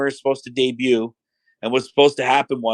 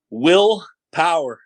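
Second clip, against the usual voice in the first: hesitant slow reveal; 4 semitones higher, much slower than usual. Retold or imitated. Wrestler sheepishly reveals new name.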